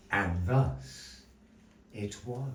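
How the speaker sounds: theatrical storyteller narration with long pauses; measured, dramatic tale-telling; story narration. A narrator's reading. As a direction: spin the tale for the audience.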